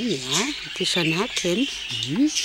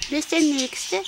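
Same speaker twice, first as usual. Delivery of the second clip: high pet talk voice; 5 semitones higher than usual. Real, not acted. Greeting animals, high pet voice.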